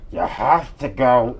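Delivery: slow, slurred parent voice; parent after a stroke. Retold or imitated. Mocking parents insisting on Hebrew school, slow slurred voice. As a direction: drag the words like a drooping mouth. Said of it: "The face is drooping on one side".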